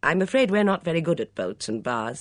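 a touch of breezy good cheer; cheerful. A narrator's reading. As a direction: answer cheerfully, lifting the voice. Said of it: "said Miss Blacklock cheerfully".

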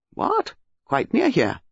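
sharp surprised question. A narrator's reading. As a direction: snap back in surprise. Sir Henry's sharp surprise.

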